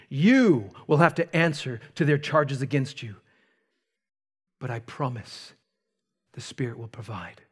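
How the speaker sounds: lightly voiced Jesus charging his disciples; a hint of Jesus sending them out; voicing Jesus. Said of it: "Jesus speaking".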